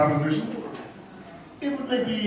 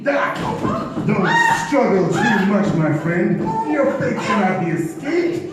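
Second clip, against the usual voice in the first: gloating killer; 4 semitones higher, 5 dB louder than usual. Acted. Villain killing Mona.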